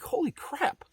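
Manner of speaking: a slow, hushed, awed gasp of shock; picture the airbag blast and breathe it out; mock holy crap. Imagining an airbag in the face, slow hushed awe. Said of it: "And I used to think".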